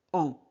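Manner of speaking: « en » nasal; son en. Shown as a demonstration. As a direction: dire « en » comme dans lentement. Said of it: "A N se prononce". (« en » bien nasalisé)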